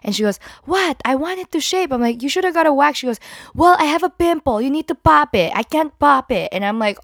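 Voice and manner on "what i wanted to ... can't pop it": higher, louder, hurried protest; mock indignant mom. Mom insisting her daughter pop the pimple, high and whiny. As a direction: whine it back defensively. Mom defending herself, demanding.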